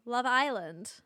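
careful try at an American Love Island; attempted American accent. Shown as a demonstration. Podcaster retrying her American accent, attempted American accent. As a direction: put on American, lean on Island. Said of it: "Normally I can do an American accent".

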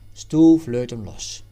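plain reading voice

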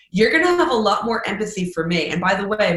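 ordinary talk

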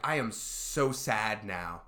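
slow, mock-whiny sad. Teacher retelling how she sulked to her student, slow mock whine. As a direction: whine it like a sulking kid. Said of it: "I just made a really whiny voice".

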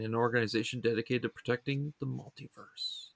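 scripted, evenly phrased show description; synopsis read-aloud. Real, not acted. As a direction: read a plot summary from the page.

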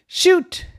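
high, punchy shout; excited call. A narrator's reading. Narrator acts out the girl's basketball practice, excited call. Calling out shots in story.

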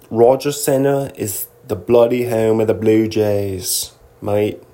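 light put-on British-style accent; a hint of bloody-mate British accent; mock British accent. Host confirming Blue Jays' home, light mock British accent. Returns to the mixed-up accent joke.

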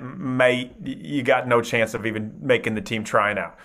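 light attempt at an Australian accent; imitated Australian accent. Owners turn down a tryout, imitated Australian accent. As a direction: put on a slight Australian accent. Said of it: "said something in this Australian accent".

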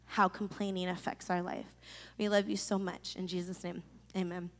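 hushed, sincere congregational prayer. Real, not acted. Leads closing prayer.

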